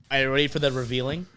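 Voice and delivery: quick, hushed, teasing question; hushed mysterious tease. Retold or imitated. Friend in the van teasing the band, hushed and quick. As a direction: lean in and tease the secret quietly. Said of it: "he just goes".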